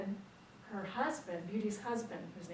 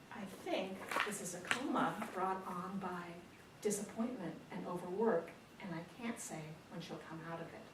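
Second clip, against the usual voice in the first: lightly voiced doctor, softer at the end; grave doctor; 6 dB quieter than usual. Doctor explaining the coma to family, mildly grave. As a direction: deliver a measured diagnosis, trailing down.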